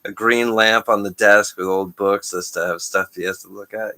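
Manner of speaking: loud, laughing, excited; laughing while talking. Real, not acted. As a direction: push through a laugh. Laughing after joke.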